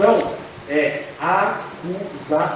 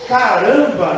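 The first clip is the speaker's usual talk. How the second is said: exclaiming aloud; 4 dB louder, slower than usual. Acted. Reacting aloud at mother's house.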